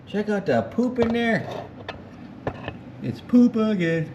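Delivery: disgusted exclaiming. Real, not acted. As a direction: shout out the gross discovery. Finds dirt inside the engine.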